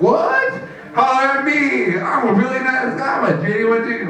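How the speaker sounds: high-pitched, incredulous pitch for himself; mock indignation. Nice guy told to holler at her, incredulous. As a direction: play up the offended nice guy. Comic acts out hollering at girl.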